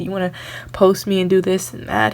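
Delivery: ordinary talk, nothing marked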